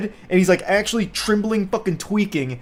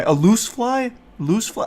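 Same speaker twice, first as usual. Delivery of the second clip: repeating the nonsense word, incredulous; baffled; 5 semitones higher than usual. Real, not acted. Reading a coworker's garbled text, baffled. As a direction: pitch jumps up in disbelief.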